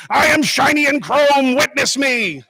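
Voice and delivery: put-on high, loud war cry of a Mad Max war boy. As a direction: chant it like a crazed wasteland fanatic. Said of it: "being like".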